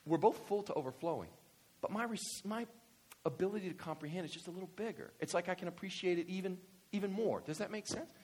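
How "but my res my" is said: usual speaking voice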